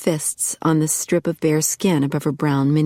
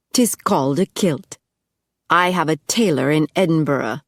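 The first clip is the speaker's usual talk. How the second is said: a hint of a Scottish brogue; light Scottish accent. Angus correcting Lindsay, light Scottish brogue. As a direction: speak it as a proud Scot, lightly.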